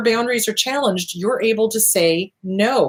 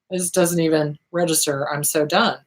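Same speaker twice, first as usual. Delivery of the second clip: low, flat, worn-out voice; numb and done; 5 semitones lower than usual. Retold or imitated. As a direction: sound emotionally drained and over it.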